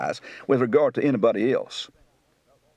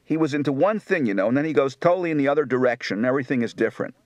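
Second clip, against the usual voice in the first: Philadelphia accent; much faster than usual. Shown as a demonstration.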